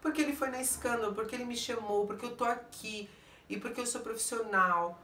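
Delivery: lightly mocking imitation of her excuses; girl explaining herself. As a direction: rattle off excuses in a mildly put-on voice. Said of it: "ela começou a se explicar".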